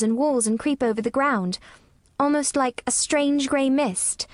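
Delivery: gently slow, low storytelling voice. A narrator's reading. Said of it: "very slowly and in a very low voice".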